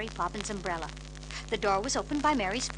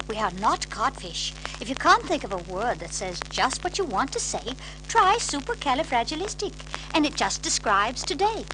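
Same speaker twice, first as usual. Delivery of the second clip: a touch higher, crisp and brisk; prim nanny; 3 semitones higher, 5 dB louder than usual. Acted. Mary Poppins teaching the children a word, crisp.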